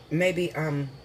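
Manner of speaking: talking with food in teeth; words around food in the mouth; mouth full. Real, not acted. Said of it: "I got shit all in my mouth".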